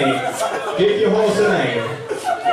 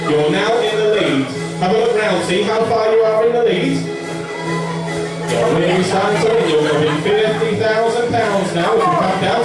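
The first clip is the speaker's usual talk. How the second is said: race commentary; 3 semitones higher than usual. Acted. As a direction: build to a shouting finish.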